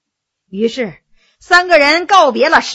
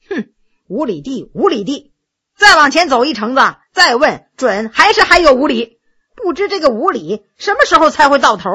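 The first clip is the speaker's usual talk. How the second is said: grumpy, peevish. Acted. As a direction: sulk like a tired spoiled prince. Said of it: "没好气儿地说". (没好气儿地抱怨)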